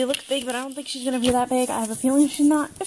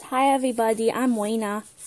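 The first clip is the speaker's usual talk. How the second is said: speaking like a doll; 2 semitones lower than usual. Introducing the doll Raina to viewers and speaking as her: voicing the doll Raina. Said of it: "She says".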